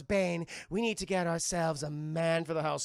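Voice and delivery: a hint of a sultry villainess; Poison Ivy voice. Poison Ivy tells Bane her plan, lightly sultry. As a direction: scheme aloud like a femme fatale. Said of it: "And she goes".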